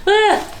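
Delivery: high-pitched wordless "ah"; high groan. Real, not acted. Vlogger after joking about depression, high groan. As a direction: let out a high little moan.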